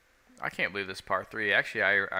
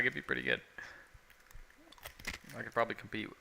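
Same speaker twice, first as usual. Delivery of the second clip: eating chips; 3 semitones higher, 4 dB quieter, faster than usual. Real, not acted. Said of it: "the crunching".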